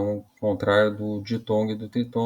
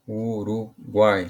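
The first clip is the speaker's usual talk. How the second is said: slow example word; much slower than usual. Shown as a demonstration. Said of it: "Então, oi".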